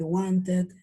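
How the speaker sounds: "wanted" ending in a spelled-out -et; wrong pronunciation. Shown as a demonstration. Teacher showing a forbidden form, mispronounced. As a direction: say "wanted" as wan-tet, with an e. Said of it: "tampoco puedo decir".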